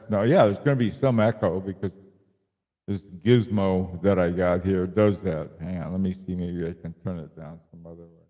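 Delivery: heavy room reverb; cave echo. Real, not acted. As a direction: voice echoing like a cave. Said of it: "Sounds like you're in a, uh, a cavern".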